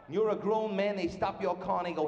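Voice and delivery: normal talking voice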